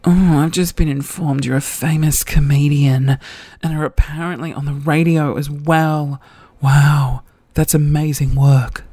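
measured put-on message-reading voice; imagined crush's voice. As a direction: read his text as you imagine he says it. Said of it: "how I think he's saying it".

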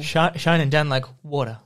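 shivery, stammered lyric; very cold. Acted. Reading lyrics for a guessing friend, acting very cold. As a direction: stutter it as if chilled. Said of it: "but I'm very cold".

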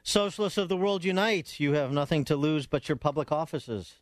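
high-pitched mock proclamation, easing down by the end; mock rallying cry. Host mocking socialists after the clip, mock rallying cry. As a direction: proclaim it like a parody manifesto.

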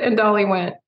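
usual speaking voice

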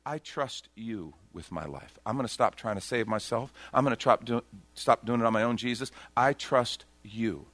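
hushed surrender to Jesus; quiet sincere prayer. Retold or imitated. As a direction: pray it gently. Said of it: "it says".

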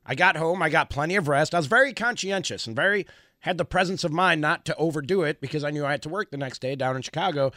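hoarse, worn-out gravelly voice. Real, not acted. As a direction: talk through a rough, shot voice. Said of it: "it's not very good".

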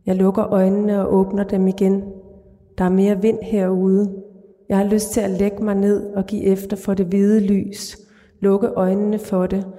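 calm, even literary read-aloud; measured reading of a dark short story. A narrator's reading. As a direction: read the story steadily to the listener. Author reads her short story aloud.

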